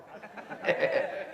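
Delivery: short voiceless chuckle; laugh. Real, not acted. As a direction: chuckle under the breath. Laughs at retold "my friend?.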